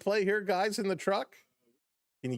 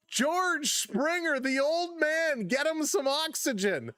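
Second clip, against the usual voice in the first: savoring call; 8 semitones higher, slower than usual. Real, not acted.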